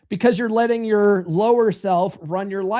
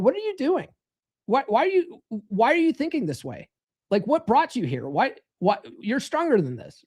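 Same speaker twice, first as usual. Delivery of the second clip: inner observer voice; 3 semitones higher than usual. Retold or imitated. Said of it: "observer part of himself looking at his thoughts going".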